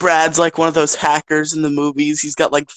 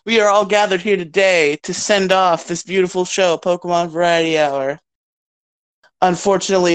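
mock solemn eulogy. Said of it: "You made it sound like someone died".

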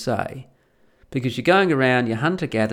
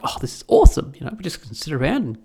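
mock delight; 3 semitones higher, 3 dB louder than usual. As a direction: gush like a carefree farmer. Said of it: "And they're like".

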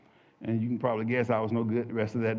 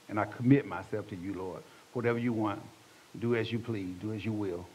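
soft, low surrender; prayer of commitment; 4 semitones lower, 7 dB quieter than usual. Retold or imitated. Man committing himself to the Lord in church, soft submissive prayer. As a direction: give yourself over quietly.

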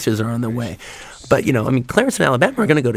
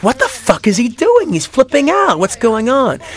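startled outcry, pitched way up; baffled audience; 11 semitones higher than usual. Retold or imitated. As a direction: play the shocked crowd, much higher. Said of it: "the audience is like".

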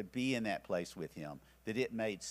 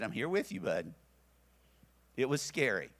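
reassuring. Retold or imitated. Holding frightened son.

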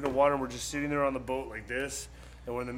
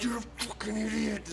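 mock angry scream; 6 semitones higher, 4 dB quieter than usual. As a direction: imitate screaming at a friend, volume held back. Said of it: "And we're screaming at him".

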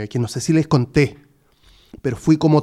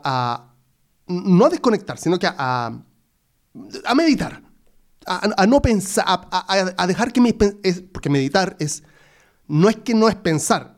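ordinary delivery

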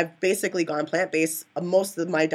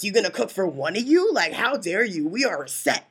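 mock outrage; 3 semitones higher than usual. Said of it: "that's how I would get".

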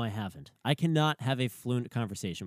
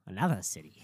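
flat Boston accent, falling; 5 semitones lower, faster than usual. Real, not acted. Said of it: "Whipping out her Boston accent".

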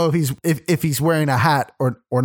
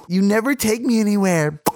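higher-pitched girlfriend, mock mouth full; mimicked mouth full; 4 semitones higher than usual. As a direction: imitate arguing with your mouth occupied. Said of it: "sucking his wiener while arguing with me".

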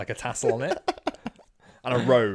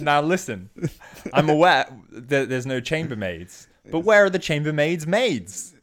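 louder, giggly mock lecture; laughing through a quote; 5 semitones higher, 6 dB louder than usual. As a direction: barely hold it together while scolding. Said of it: "He said".

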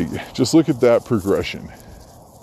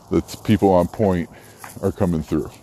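winded, gasping between words; out of breath. Real, not acted. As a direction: talk while catching your breath. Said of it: "Sorry, I'm out of breath".

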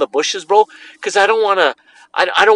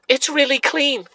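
deadpan; 6 semitones higher, 5 dB quieter, slower than usual. Retold or imitated. Deadpan reply while leaving.

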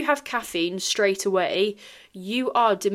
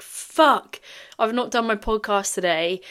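retold sudden realisation; 3 semitones higher than usual. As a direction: burst out as if just remembering. Acted quote of sudden realisation.

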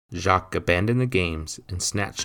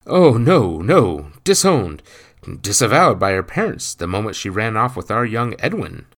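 louder tut-tutting fat man; clucking gossip; 4 semitones higher, 8 dB louder than usual. A narrator's reading. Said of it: "Mister Adelson clucked".

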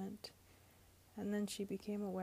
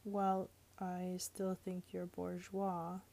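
mild mutter; slower than usual. Acted. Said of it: "he muttered".

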